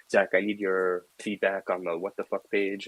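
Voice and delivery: a terrible, hammed-up French accent; Lamine's French accent. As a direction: do a bad French colleague asking for feedback. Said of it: "this is my terrible French impression".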